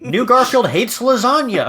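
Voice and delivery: high, hammed-up trailer line; mock announcement. Mock dramatic pitch parody.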